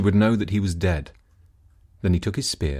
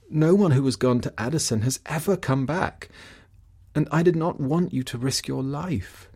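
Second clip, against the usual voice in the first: worried wife; 6 semitones higher than usual. Acted. Wife confesses fear.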